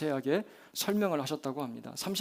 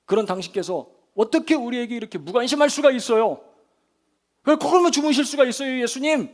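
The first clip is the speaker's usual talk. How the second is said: high, loud, indignant protest; accusing complaint; 7 semitones higher, 7 dB louder than usual. Acted. Disciples accusing a sleeping Jesus, high indignant outcry. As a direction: throw the blame at him, rising in pitch. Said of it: "예수님께 책임을 전가를 하고".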